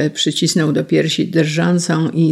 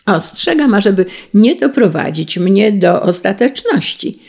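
raised, threatening warning; high sharp threat; menacing call; 4 semitones higher, 5 dB louder than usual. Acted. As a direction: warn him with a menacing edge. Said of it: "zawołał groźnie".

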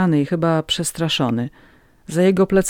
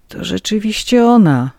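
mild moan, higher and louder; 6 semitones higher, 6 dB louder than usual. A narrator's reading. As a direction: let it out as a slight groan. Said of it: "jęknął".

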